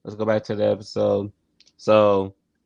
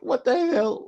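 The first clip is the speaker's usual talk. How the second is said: a much higher, baffled Bernie voice; Bernie Mac impression; 13 semitones higher than usual. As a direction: play Bernie staring at a screaming kid. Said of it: "Bernie Mac was like".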